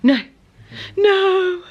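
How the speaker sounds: rising mock no, hammed up; mock loud refusal. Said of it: "I'm like".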